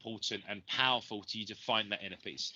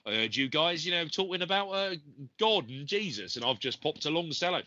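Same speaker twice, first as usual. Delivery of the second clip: higher, put-on South London voice for a monk; South London accent; 5 semitones higher than usual. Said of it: "I don't know why I put on that accent".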